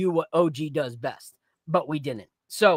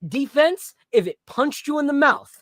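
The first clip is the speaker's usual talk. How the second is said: mock trash talk; 3 semitones higher, 3 dB louder than usual. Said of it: "It's like".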